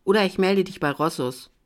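a loud, barked order; threatening the bartender, loudly; angry demand. Acted. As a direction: slam the demand down on him. Drunk guest threatens the bartender.

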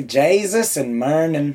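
lightly put-on Irish; Irish accent. Shown as a demonstration. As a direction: show off two words in an Irish brogue. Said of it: "I can just say Jesus and Murnin".

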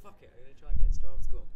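fast, blurted decision; rushed resolve. Retold or imitated. Guest quitting tour work for drama school, fast blurted resolve. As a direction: rattle it off, mind made up. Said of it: "So then I was like".

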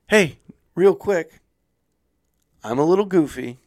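a hint of a quirky lady calling him back; goofy receptionist. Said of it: "she goes".

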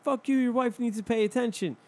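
lightly voiced angry lady; lady's voice. Retelling the lady snapping back, lightly voiced. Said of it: "the lady was like".

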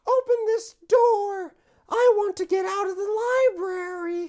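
high distressed prisoner. Acted. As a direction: cry out high to be let out. Prisoner voiced pleading, high.

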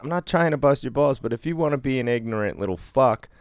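high, building indignation; heated rant. Real, not acted. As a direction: rise up in disbelief. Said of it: "heated rant".

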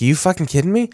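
high mock furious rant; hammed-up indignant rant; mock outrage. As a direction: imitate a sore loser. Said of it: "He's like".

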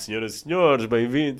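booming loud announcer voice; radio presenter voice. Pretend. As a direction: welcome the crowd like a radio host. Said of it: "Voz de apresentador".

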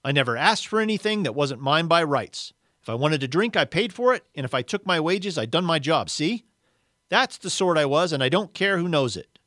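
aggrieved character insisting on his worth; indignant ghost. Acted. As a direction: protest your rights with wounded pride. Reads the aggrieved ghost's part.

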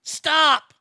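loud, high single-word shout; exasperated shout; shouted stop. Real, not acted. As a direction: bark the word out. Yelling at the claim.

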